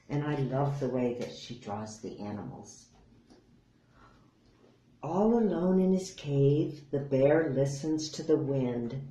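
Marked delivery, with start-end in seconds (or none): 5.0-9.0 gentle storytime narration; reading to children. A narrator's reading. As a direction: read it like bedtime story. Reads a picture book to children.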